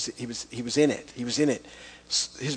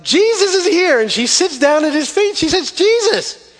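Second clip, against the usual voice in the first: adoring whisper-voice; 10 dB louder than usual. Acted. Mary adoring Jesus, acted.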